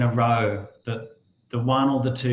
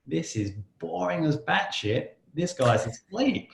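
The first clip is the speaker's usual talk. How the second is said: nagging inner voice; 5 semitones higher than usual. Retold or imitated. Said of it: "inner voice saying".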